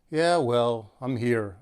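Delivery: grudging, unenthusiastic mumble; unthrilled. Shown as a demonstration. Rising sign shrugging off a thank-you, unenthusiastic. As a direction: say it like you'd rather not be anywhere. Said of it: "I don't sound real thrilled about it".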